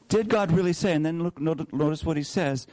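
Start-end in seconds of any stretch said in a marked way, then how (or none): 0.1-0.9 DID raised and pushed, a sly seed of doubt; doubt-sowing question. Shown as a demonstration. Preacher voicing the serpent to Eve, sly and doubting. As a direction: plant doubt with a rising DID. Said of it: "Planting seeds of doubt".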